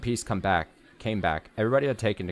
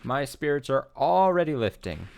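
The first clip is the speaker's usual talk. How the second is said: playful flirty voice; 11 semitones higher than usual. Acted. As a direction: coo at your partner, delighted. Voicing a flirty character.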